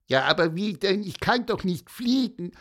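high, plaintive peeping; whiny little bird. Acted. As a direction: whine like a small sad finch. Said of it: "jammerte der kleine Buchfink".

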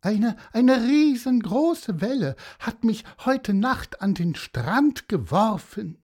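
high, loud, hammed-up lament; Cassiopeia wailing. A narrator's reading. Horse telling of the giant wave, high melodramatic wail. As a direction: pitch it up and bemoan dramatically.

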